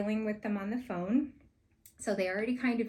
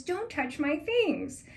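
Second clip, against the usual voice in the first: grumpy chef; 8 semitones higher, 4 dB louder, slower than usual. Retold or imitated. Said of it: "He was so mean".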